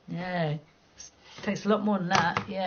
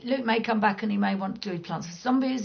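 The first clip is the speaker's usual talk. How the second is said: ordinary talk, nothing marked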